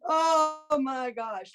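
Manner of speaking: drawn out, laughing through it; slow laughing oh my gosh. Real, not acted. Laughing while recalling the bong hit.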